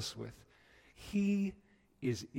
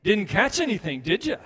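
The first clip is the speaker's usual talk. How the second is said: higher, louder teasing question; knowing call; 7 semitones higher, 10 dB louder than usual. Retold or imitated. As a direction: call out expecting a no. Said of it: "He's not just saying".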